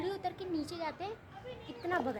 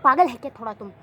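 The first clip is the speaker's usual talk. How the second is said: indignant outburst; 2 semitones lower, 12 dB louder, faster than usual. Retold or imitated. Indignant rant about teacher.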